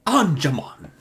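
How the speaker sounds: high, slow, drawn-out exclamation. Shown as a demonstration. Explaining a swapped swear phrase, high drawn-out exclamation. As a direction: stretch out each word in high mock amazement. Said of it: "instead of saying".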